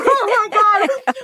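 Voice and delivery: high slow laughing groan; mortified laugh. Retold or imitated. Wife to husband, slow high mortified laugh. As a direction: drag it out, embarrassed.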